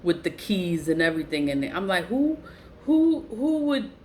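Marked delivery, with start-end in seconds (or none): 2.1-3.9 incredulous. Retold or imitated. Retold outraged question.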